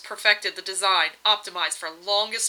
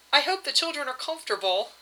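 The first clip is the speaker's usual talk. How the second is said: a little anxious; 6 semitones higher than usual. Acted. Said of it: "she said a little anxiously".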